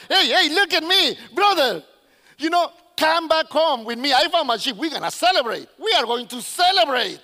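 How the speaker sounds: loud, jubilant calling out; happy shepherd. Acted. Shepherd calls a brother home to celebrate, loud and happy. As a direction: hail everyone to come and celebrate. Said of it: "he probably was happy just walking around all happy".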